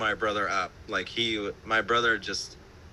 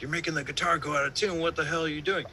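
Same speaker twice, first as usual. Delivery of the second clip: David Bennett; 5 semitones higher, faster than usual. Retold or imitated. Producer scolding guitarist over the tuning, high mock-indignant voice. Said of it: "And then David Bennett's like".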